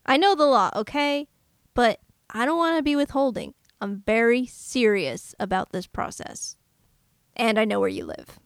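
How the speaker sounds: tense, menacing hitman reply; dramatic reading. Acted. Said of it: "Do you want to do a dramatic reading?".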